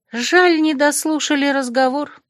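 a touch of disappointment; sigh of regret. Acted. Malvin regrets losing the eavesdrop, mildly sighing. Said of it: "вздохнула Мальвин".

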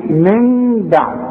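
من بعد slow, with the nun hidden and the lips left open; no lip closing. Shown as a demonstration. Teacher models hiding the nun before ba. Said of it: "ما اقفلش شفايفي".

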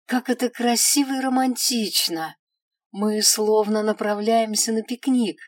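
delighted elf. Acted. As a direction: gush with delight. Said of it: "протянул Мираэль с улыбкой".

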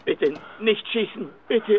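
quiet, slow plea not to shoot; terrified, pleading softly; frightened begging. Acted. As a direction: beg for your life, hushed. Begging the gunman.

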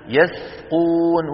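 يسقون drawn out slowly with a light س; light seen. Shown as a demonstration. Teacher reciting the correct form. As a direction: slowly model يسقون with a thin س. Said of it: "ولا نقول يسقون".

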